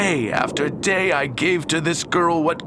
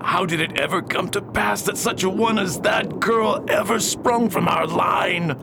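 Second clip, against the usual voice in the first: exasperated exclaim; 2 semitones higher than usual. Acted. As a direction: rail against fate. Father laments his daughter.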